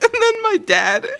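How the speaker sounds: very high, teary laughing. Real, not acted. Describing dad in her drawing, laughing hard. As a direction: squeak through tears of laughter.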